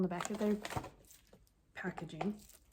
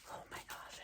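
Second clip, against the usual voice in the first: barely voiced, much softer; hushed awe; 13 dB quieter than usual. Real, not acted. Opening markers for viewers, hushed awed whisper. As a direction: gasp it out softly in wonder.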